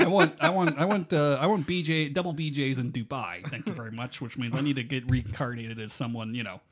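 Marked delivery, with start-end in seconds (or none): 0.0-2.3 laughing. Real, not acted. Laughing at the Dubai joke.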